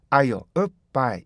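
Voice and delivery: "I'll up by" with a closed-lip stop before "by"; step-by-step linking. Shown as a demonstration. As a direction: say "are" then "up", hold the lips shut, release "by". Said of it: "이렇게 연결해 줘야 되죠".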